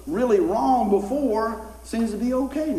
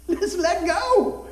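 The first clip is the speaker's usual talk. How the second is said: stretched slow high call; slow and drawn out; 12 semitones higher, 3 dB louder, much slower than usual. Acted. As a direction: draw out let go slowly. Drawn-out exhortation.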